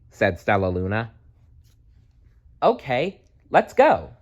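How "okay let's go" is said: high, rising eager yes; eager agreement. Acted. Pip to Stella Luna, high eager agreement. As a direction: jump at the chance. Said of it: "agreed Pip".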